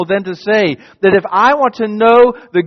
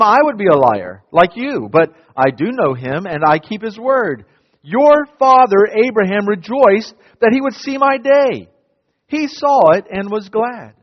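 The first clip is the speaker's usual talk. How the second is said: steady, measured Bible reading; solemn reading voice; scripture reading; 2 semitones higher than usual. Acted. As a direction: read the passage to the congregation. Reads the scripture passage aloud.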